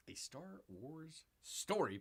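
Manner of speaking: slow, stretched-out mock title read; drawn-out repeat. Host repeating a film subtitle for viewers, drawn-out.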